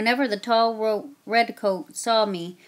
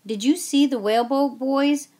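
expectant; 5 semitones higher, 3 dB louder than usual. Acted. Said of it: "Mother asked expectantly".

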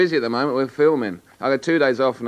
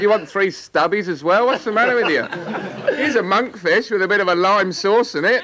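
raised, laughing mock scolding; mock exasperation; 6 semitones higher than usual. Alan scolding friends over their steak order, laughing mock scolding. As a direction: scoff at them for ordering steak.

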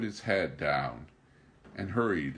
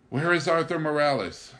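lament; 9 semitones higher, 8 dB louder than usual. Acted. Lamenting a lost friend.

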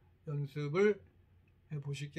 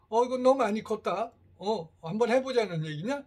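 mock scolding, raised and loud; imitating angry mother; 4 semitones higher, 7 dB louder than usual. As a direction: play a mother picking a fight with her grown son. Mother scolds, fight escalates.

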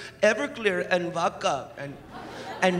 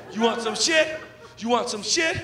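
tough guy with slurpee; 3 semitones higher than usual. Retold or imitated. Tough guy threatening a rival while holding his slurpee, mock menace. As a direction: square up while holding a slushie. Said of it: "You can't get tough with one of those".

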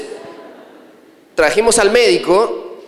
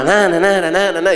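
nagging mother. Retold or imitated. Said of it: "Y tu mamá".

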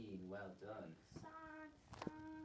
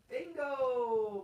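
big voice; 9 semitones higher than usual. Shown as a demonstration. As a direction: show the kid how to shout it. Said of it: "Big voice".

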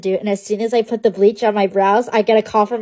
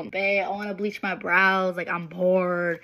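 put-on whiny girlfriend; 2 semitones lower, 5 dB quieter, slower than usual. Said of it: "threatening him with the little".

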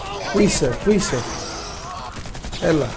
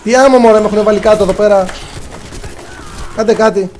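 higher, urgent protest; exasperated plea; 4 semitones higher than usual. Real, not acted. Downed player to teammates who want ammo, exasperated plea. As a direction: demand help from your team, exasperated.

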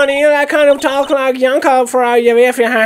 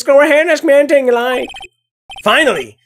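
lightly voiced Southern woman. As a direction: play a country gal lightly, fussing. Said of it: "I'm having fun doing their voice".

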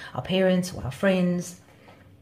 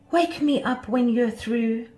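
slow, higher-pitched storybook disdain; dismissive; 6 semitones higher, 4 dB louder than usual. A narrator's reading. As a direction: brush off a tiresome friend, slowly. Butterfly dismisses friend's ideas.

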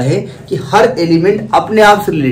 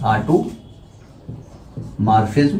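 stretched out, softer, lower; very slow dictation; 6 semitones lower, 7 dB quieter, much slower than usual. Shown as a demonstration. Teacher dictating automorphism very slowly. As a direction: drag the word out for writing. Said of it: "dictating term".

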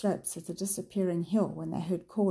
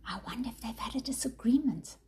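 whispered; 5 semitones higher than usual. A narrator's reading. Mother whispering to her sister in the kitchen, hushed whisper. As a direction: whisper it so the children can't hear. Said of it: "Missus Nell whispered to her sister".

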